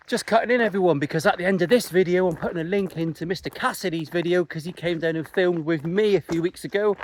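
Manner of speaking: breathless, walking uphill; out of breath. Real, not acted. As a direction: talk while puffing up a hill. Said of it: "I'm out of breath".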